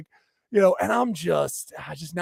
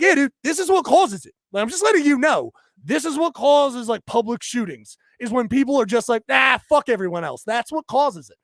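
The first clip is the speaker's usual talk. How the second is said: mock furious lecture; retold angry lecture; 5 semitones higher, 4 dB louder than usual. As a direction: lecture him, heated and pointed.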